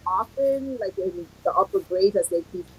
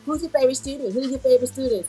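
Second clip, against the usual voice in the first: higher-pitched repeated pupil question; imitating pestering kids; 5 semitones higher, faster than usual. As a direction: nag the teacher like eager students. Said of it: "the one question they asked".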